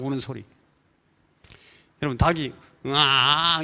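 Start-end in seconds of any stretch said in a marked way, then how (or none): 2.9-3.6 wrong rooster cry. Shown as a demonstration. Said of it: "이렇게 웁니까?".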